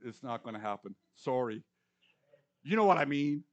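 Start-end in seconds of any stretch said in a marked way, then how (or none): 2.6-3.4 louder, a touch of twang on know; self-mocking Southern try; half-hearted Southern twang; another go at the Southern phrase. Shown as a demonstration. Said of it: "I'll never have the twang".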